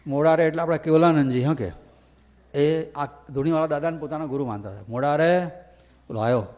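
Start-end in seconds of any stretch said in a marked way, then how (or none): 0.1-0.4 louder call with a rising રે at the end; old saint calls his disciple, louder with a rising end. Retold or imitated. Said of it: "દાદાએ બૂમ પાડી". 4.9-5.5 calling out. Retold or imitated. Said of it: "દાદાએ બૂમ પાડી".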